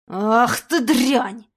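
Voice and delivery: loud, very slow angry snarl; furious curse. Acted. Bitten robber cursing the animal, loud slow snarl. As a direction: spit it out in pain and rage.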